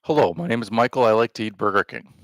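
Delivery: quick, lightly put-on American accent; a hint of a playful American accent. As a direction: breeze through it in a mock American accent. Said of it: "That's my American accent".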